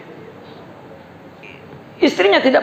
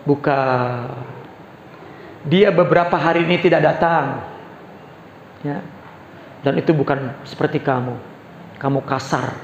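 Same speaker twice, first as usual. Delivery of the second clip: put-on lower, softer old man voice; complaining old man; 7 semitones lower, 5 dB quieter than usual. Blind beggar rejects Abu Bakar, lightly voiced and hurt.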